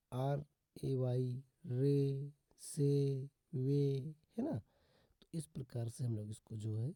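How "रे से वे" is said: "रे, से, वे" each ending on a long e; teacher's drill, long e in "रे", "से", "वे"; AY pronunciation. Shown as a demonstration. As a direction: sound out "रे, से, वे" one at a time. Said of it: "ए से करते हैं।".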